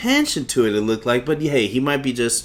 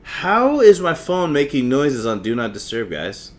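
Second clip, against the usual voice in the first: raised voice, opening loud; real exasperated disbelief; 4 dB louder than usual. Real, not acted. Host baffled by phone noises during recording, exasperated. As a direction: question it in annoyed disbelief.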